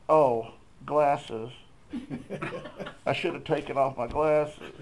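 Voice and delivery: rueful laugh through the words. Retold or imitated. Man lying on floor, realizing glasses, laughing. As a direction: chuckle at your own mistake.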